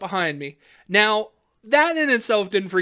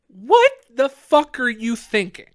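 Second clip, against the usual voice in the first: slow, incredulous cop question; imitated reprimand; mock scolding; 3 semitones higher, 4 dB louder, slower than usual. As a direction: draw it out like a baffled officer. Retold cop scolds him.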